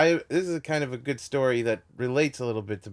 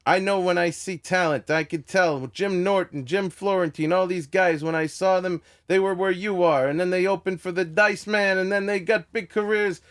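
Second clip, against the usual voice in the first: Andrew Dice Clay; 5 semitones higher than usual. Retold or imitated. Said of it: "He says".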